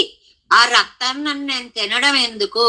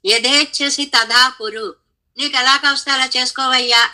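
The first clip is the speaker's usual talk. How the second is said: Krishna's words; 5 semitones higher than usual. Retold or imitated. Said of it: "అన్నాడు చివరి కృష్ణుడు".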